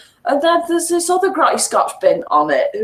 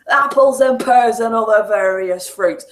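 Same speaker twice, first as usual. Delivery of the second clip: lightly hammed Cockney patter; mock Cockney. Player joking about game dialogue, mock Cockney. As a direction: send up Cockney rhyming slang.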